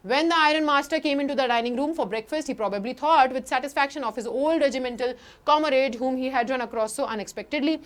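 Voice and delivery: slow, careful read-aloud of the text; slow story reading. Acted. Teacher reading the English text to class, slow and careful. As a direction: read each word out slowly for students.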